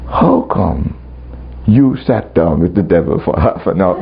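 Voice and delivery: calm, low retold voice of God. God questioning the preacher about the devil, calmly. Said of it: "He just calmly said".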